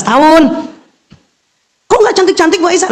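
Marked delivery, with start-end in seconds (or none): 1.9-2.9 high, whiny complaint; complaining mother. Retold or imitated. Teacher imitating a disappointed student, high and whiny. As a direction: mimic a mother grumbling. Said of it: "Loh, Ibu, standarnya mana?".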